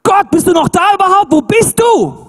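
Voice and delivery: deutlich höher und lauter, verzweifelt zu Gott gerufen; panischer Schrei. Retold or imitated. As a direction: schrei in Todesangst nach Gott. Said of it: "Da schreist du!". (ein Mensch im Sturm schreit verzweifelt zu Gott)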